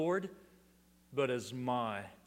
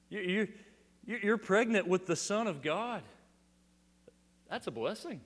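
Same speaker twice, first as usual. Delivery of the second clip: mock casual; 2 semitones higher than usual. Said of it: "casually says".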